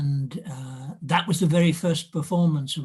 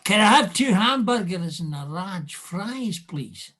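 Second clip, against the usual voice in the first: broad Scots lilt, higher pitched; Edinburgh Scottish accent; 3 semitones higher than usual. Shown as a demonstration. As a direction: order like an Edinburgh native talking to family. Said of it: "talking to your father in Edinburgh".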